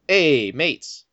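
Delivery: put-on a weak, lightly done Australian accent on "Hey, mates, look at me leg"; bad Australian accent. Guy back on the beach after the bite, in a weak Australian accent. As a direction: fake Australian, barely there. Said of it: "that's what you got for an accent".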